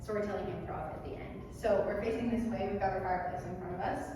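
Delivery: rhythmic count calling; calling dance counts. Acted. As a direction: call out the counts like a dance teacher.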